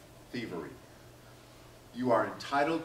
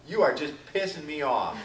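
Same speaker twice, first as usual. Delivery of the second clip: mock annoyed partner; 4 dB louder than usual. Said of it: "said that to your significant other".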